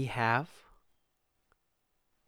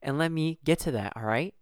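mock snappy; 3 semitones higher, 3 dB louder than usual. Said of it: "And I simply say to you".

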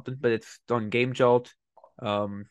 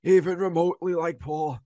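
slow, higher New York accent; drawn-out New York character voice, pitched up; Paul Grape; 8 semitones higher, slower than usual. Shown as a demonstration. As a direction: stretch it out in a put-on New York voice. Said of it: "almost entirely on the New York accent".

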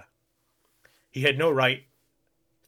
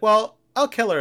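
mock menacing girl; 9 semitones higher, 9 dB louder than usual. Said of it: "and she's like".

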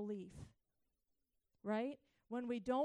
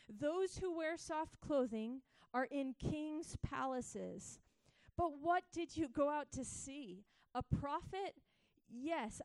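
rising, louder preaching read of the passage; preaching scripture; 3 dB louder than usual. Acted. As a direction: proclaim it to the crowd, building. Reads Jesus' words to crowds.

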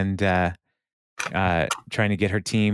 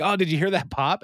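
mock pained Andy; 9 semitones higher than usual. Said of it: "and throws it, like".

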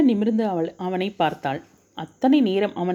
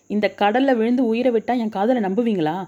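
hurt anger, pitch pushed higher; angry question; 4 semitones higher than usual. Acted. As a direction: fire it back at him, stung and angry. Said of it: "கோபத்துடன் கேட்டாள்". (கோபமான, உயர்ந்த குரலில் கேள்வி)

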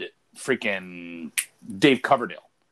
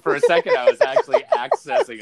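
much higher, louder mock British rock star accent; mock rock-band accent; 9 dB louder than usual. Catching himself mid-story, slipping into a loud, high mock rock-band accent. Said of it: "a Spinal Tap, uh, accent there".

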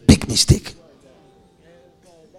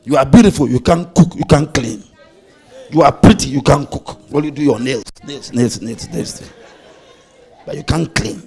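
mock scolding; 3 semitones lower, 4 dB louder than usual. Scolding an imagined beautiful girl.

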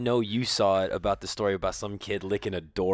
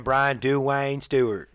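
put-on slow drawn-out southern accent; 2 semitones higher, 5 dB louder, much slower than usual. Friend imitating how the host would say the name in a southern accent. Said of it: "I just picture you saying".

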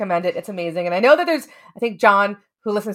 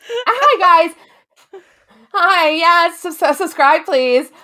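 cutesy high voice; 9 semitones higher, 5 dB louder, much slower than usual. Pretend. Mock cutesy plea.

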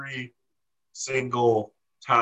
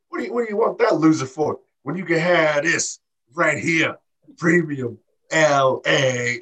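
mock cocky wrestler; 4 semitones higher, 4 dB louder than usual. Retelling the wrestler hitting on Indy, in a mock cocky boast. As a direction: hype himself up over the loser, dragging out premium. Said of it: "He's like".

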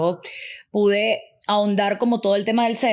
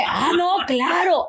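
imitating the reggaetonero; 8 semitones higher, slower than usual. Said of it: "Entonces él dice".

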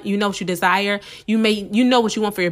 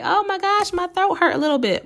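mock distressed complaint; 9 semitones higher than usual. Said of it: "So I'm like".

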